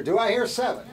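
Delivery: lightly voiced auctioneer call; a hint of an auctioneer asking for bids. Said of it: "I feel like an auctioneer".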